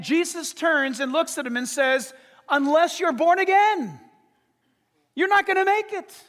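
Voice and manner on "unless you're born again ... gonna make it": higher and louder, pressing the point; forceful warning. Retold or imitated. Jesus warning Nicodemus, raised and forceful. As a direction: push it like a final warning.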